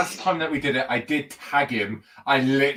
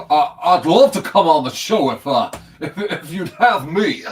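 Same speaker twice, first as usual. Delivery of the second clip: imitating Toby; 3 semitones higher, 6 dB louder than usual. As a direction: ham up Toby's eager request. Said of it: "if you don't sound like that".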